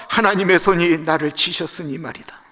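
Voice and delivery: loud, high, anguished lament; humbled plea. Acted. Job pleading with his friends, loud and anguished. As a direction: beg for pity, pride gone. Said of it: "자존심을 내려놓고 하는 말".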